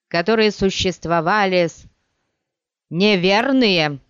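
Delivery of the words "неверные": slow, loud exclamation; cried out. Acted. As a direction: cry the word out, stretched. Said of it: "вскричал Корба".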